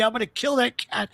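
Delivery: high mock angry yell at the cat; mock furious dad; imitating dad's rage. Father's rage retold by son.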